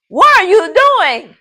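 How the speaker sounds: high, slow question with voice going up; question rising up. Shown as a demonstration. Teacher demonstrating question intonation to class, rising high. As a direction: show how a question lifts at the end. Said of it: "your voice kinda goes up".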